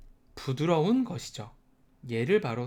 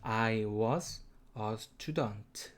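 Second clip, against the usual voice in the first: slow demo; 5 semitones lower, 5 dB quieter, much slower than usual. Shown as a demonstration. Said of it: "발음은".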